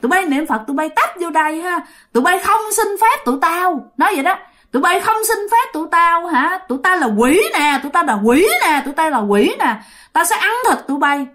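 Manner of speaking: high, jeering demon voice mocking the praying women; taunting ghost. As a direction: sneer it down like a spirit on the roof. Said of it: "mà nói rằng á".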